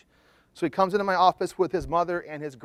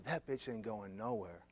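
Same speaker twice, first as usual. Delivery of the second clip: low, slow and much softer scoffing; dismissive sneer; 5 semitones lower, 13 dB quieter than usual. Retold or imitated. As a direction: brush her off with slow contempt. Client scorns girlfriend in session.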